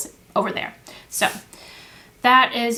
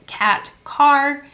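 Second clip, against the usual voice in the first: cat and car called out a bit louder; naming picture cards; 4 semitones higher, 3 dB louder than usual. Shown as a demonstration. Teacher names the matching cards aloud, clearly. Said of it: "So they say".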